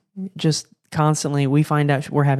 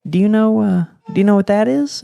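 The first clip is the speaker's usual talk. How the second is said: much higher, sing-song hinting question; sonogram tech voice; 7 semitones higher, 4 dB louder than usual. Retold or imitated. Sonogram tech hints at twins to the parents, high sing-song. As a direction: tease the parents with a knowing hint. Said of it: "I hear the sonogram tech go".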